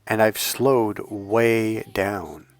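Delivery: slowed way down, comforting and resonant. Real, not acted. Coach showing viewers his calm slowed delivery, slow and comforting. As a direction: ease off the pace and let the voice settle calm. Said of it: "my tone is more resonant".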